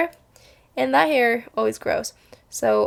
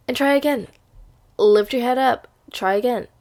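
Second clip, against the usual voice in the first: louder, higher rallying call; rousing encouragement; pep talk; 4 semitones higher, 5 dB louder than usual. Real, not acted. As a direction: fire up the viewer to try again. Motivational urging.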